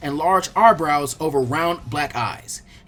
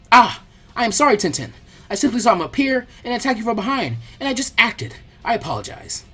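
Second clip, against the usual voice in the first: eager apology; 6 semitones higher than usual. Acted. Lee apologizes to Tenten.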